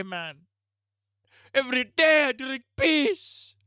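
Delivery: squeaky cartoon thug bragging; mock rapper. Put-on rapper persona voice.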